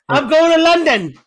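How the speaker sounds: mock shout. Mocking the MVP's answer with a loud mock shout. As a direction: shout it out like a champion on TV. Mimicking a winning player.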